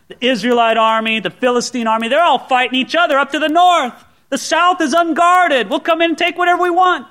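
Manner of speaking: high, excited imitation of confident raiders; gloating raiders. Pastor voicing Amalekites eyeing the unguarded south, gloating. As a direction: crow over the plan, pitched well up.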